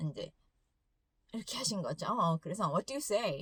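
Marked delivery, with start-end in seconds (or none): 2.7-3.4 firm, pressing question with stress on you; imitating a scolding mom. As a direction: mom pressing her phone-distracted son to apologize, firm scolding. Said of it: "아들에게 막 다그치는 것처럼".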